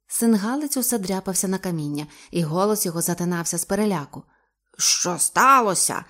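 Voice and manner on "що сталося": slow, loud demanding shout. Acted. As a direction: call out slowly to the diver. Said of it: "закричав капітан".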